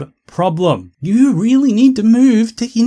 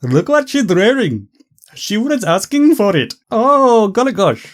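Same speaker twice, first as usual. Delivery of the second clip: mock Indian accent. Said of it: "it went more on the lines of".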